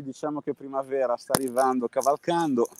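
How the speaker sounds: muffled behind a mask; talking through a face mask. Real, not acted. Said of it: "Oggi faccio la live con la mascherina".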